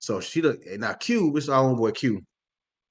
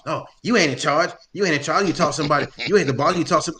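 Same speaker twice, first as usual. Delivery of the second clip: arguing customer; 4 semitones higher, 5 dB louder than usual. Retold or imitated. Customer arguing with manager retold.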